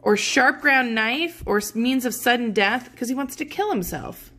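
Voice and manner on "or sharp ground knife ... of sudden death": higher, louder, quick desperate plea; frantic young lover pleading for a way out; desperate Romeo. Acted. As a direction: beg for poison in a rush, higher and louder. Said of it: "then look at this".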